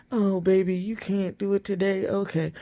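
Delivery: mock soft owner. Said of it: "don't treat it like".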